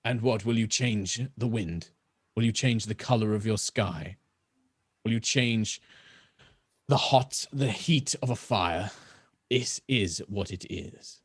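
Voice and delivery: lightly voiced rasping elf. Elf scornful questions.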